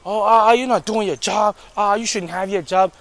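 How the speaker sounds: mock whiny complainer; mock nagging. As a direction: imitate her nagging, mildly hammed-up. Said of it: "She's still talking".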